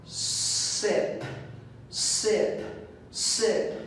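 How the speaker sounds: sip with a long, clear initial s; initial sound drill. Shown as a demonstration. Teacher drilling the first word for students, sip with its initial s held. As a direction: draw out the s starting each sip. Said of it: "Please listen to the initial sound".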